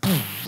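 imitated puff of exhaust; car's last gasp. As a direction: blow out a dying-engine poof. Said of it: "sort of breathes its last breath".

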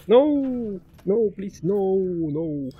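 plead, starting high and falling away. Real, not acted. Player begging the game for mercy, pleading.

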